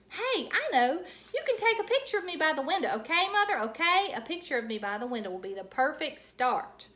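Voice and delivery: high, loud and fast; excited and loud. A narrator's reading. Junie B begging Mother for a window picture. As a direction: rush it out, eager. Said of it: "you're still talking too loudly".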